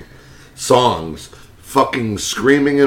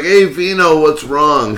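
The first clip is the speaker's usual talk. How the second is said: mock buddy greeting; 5 semitones higher, slower than usual. Imitating Rob at bar.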